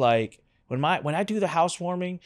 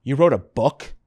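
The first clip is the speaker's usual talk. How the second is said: a slightly louder, stunned "You wrote a book?"; mock disbelief; 3 semitones lower, 4 dB louder than usual. Cousin staring at his framed book, stunned question. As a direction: ask it like you can't believe it. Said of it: "She turns and she goes".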